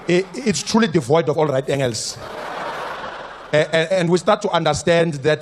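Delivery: lightly voiced long-winded comrade; mock-grandiose speech, meandering; pompous politician. Politician mocked to a room of comrades, lightly pompous. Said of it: "if you ever heard our politicians speak".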